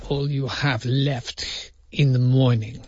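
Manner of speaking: slow imitation of a Russian accent; unconvincing Russian accent, slow. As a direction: echo the line in a drawn-out put-on Russian. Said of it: "inspiration for my Russian accent".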